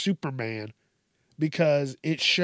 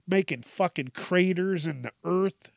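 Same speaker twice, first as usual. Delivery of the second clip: slightly higher, rising odd lilt; a strange lilting rise at the end; odd sing-song delivery; 4 semitones higher than usual. Real, not acted. Ranting about superhero fights, with an odd rising lilt. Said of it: "I don't know why I said it like that".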